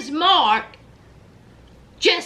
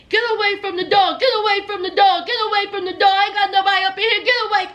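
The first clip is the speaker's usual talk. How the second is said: mock yelling, fast; 4 semitones higher, much faster than usual. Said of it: "and yelling".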